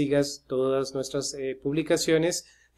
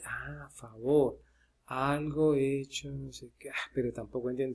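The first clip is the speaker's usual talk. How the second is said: tag; 7 dB quieter than usual. Acted. Hace de estudiante que consulta el diccionario.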